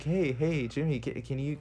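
high calling mom voice; a mom asking for groceries. Retold or imitated. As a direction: call him like his mom.

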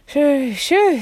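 high, loud owl hoot; swooping storybook owl call; sleepy owl. A narrator's reading. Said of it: "said a sleepy voice".

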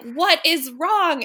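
slow, emphatic "what is wrong"; alarmed retold question. Mom to her screaming child in the car, alarmed.

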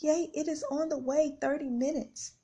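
put-on a touch of little-girl glee; mock giddy. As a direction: bounce with joy the food is coming. Celebrating order is coming.

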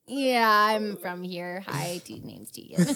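slow, loud put-on British accent; hammed-up fake British introduction. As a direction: double down on a bad British accent. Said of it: "talking in a British accent to someone".

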